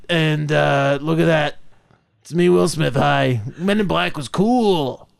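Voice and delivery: a loose, mild take on Will Smith; half-hearted Will Smith impression. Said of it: "This is my Will Smith voice".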